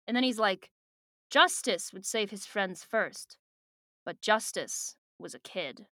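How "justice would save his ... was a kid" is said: solemn reading. Acted. Reads a weighty closing line.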